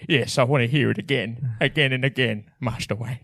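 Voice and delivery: Cockney butler voice; hammed-up Michael Caine accent; Michael Caine impression. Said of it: "I did that whole thing in Michael Caine".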